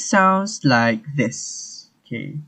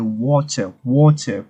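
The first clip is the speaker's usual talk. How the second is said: British water, clear T, open R-less ending; British pronunciation; 4 dB louder than usual. Shown as a demonstration. Teacher repeating water for learners, British pronunciation. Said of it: "for the British pronunciation".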